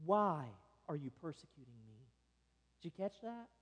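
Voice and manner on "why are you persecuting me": soft voice of Jesus. Retold or imitated. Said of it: "But Jesus says".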